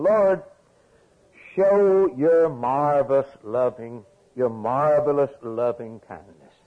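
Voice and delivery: fervent reading. Acted. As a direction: proclaim the psalm with force. Preacher reading psalm aloud.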